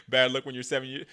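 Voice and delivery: ordinary talk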